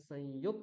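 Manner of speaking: ক দুবার; doubled ক. Shown as a demonstration. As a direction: break সংযুক্তা at the doubled ক. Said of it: "ককার কয় হলন্ত বললাম".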